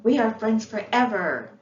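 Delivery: loud, joyful shout to the world; shouted together. A narrator's reading. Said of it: "shouted to the world".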